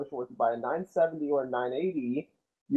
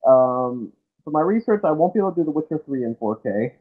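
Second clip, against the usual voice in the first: muffled. Real, not acted. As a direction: voice muffled as if through a wall. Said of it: "Nick, you sound muffled once again".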